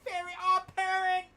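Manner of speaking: loud, high mock Asian accent. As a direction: shout it in a put-on Asian accent. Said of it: "Doing an Asian accent".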